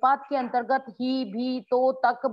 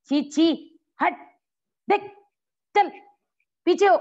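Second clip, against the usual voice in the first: loud, higher, repulsed shooing; revolted scolding, louder; disgust; 6 semitones higher, 5 dB louder than usual. Shown as a demonstration. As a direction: push someone away in disgust. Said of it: "घृणा, किसी से हमें घृणा हो रही है".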